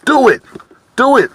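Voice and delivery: like a voice in your head egging you on; urging inner voice. Retold or imitated. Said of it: "a little voice just saying that".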